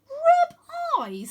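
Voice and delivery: put-on boy confused by a strange command; puzzled question. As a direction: ask back in confusion. Wynne confused.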